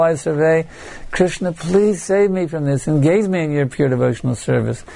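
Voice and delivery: earnest prayer for rescue, mildly urgent; desperate plea. Shown as a demonstration. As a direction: plead with the Lord, leaning on "please". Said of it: "desperately calling for help".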